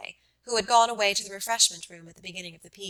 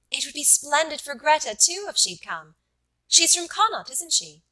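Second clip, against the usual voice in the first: eager invitation; 3 semitones higher than usual. Acted. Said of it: "Then she said suddenly".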